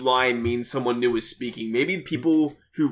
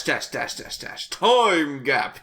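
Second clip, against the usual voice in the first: ordinary delivery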